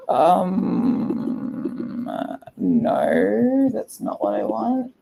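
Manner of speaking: drawn-out hesitant no; lightly acted, halting objection; reluctant refusal. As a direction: stretch it out, voice climbing. Voices girl about to cry.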